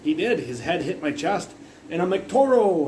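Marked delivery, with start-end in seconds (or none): 2.3-2.9 high, loud mocking call; retold yell. Goading the guy who bumped his chest, yelling. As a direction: holler it like baiting a bull. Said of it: "I was trying not to laugh".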